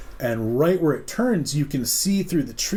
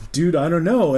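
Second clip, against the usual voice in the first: baffled friend; 4 semitones higher, 5 dB louder than usual. Retold or imitated.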